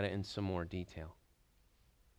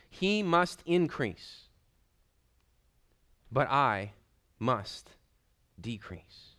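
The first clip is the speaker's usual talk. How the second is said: "He must increase" drawn out, then falling away to "decrease"; slow emphatic quote; 3 semitones higher, 5 dB louder, much slower than usual. Acted. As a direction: let the voice sink as it decreases. Quoting John's confession slowly.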